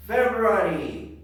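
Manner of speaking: stretched, emphatic model word; teacher's drill call. Shown as a demonstration. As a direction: call it out for the class to repeat. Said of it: "I am going to say".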